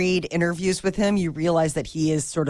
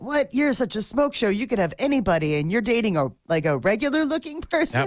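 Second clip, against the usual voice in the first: incredulous retold reaction, pitched up; mock public disbelief; 4 semitones higher, faster than usual. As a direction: play the baffled onlookers, starting high on WHAT. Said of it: "everybody went nuts because they're like".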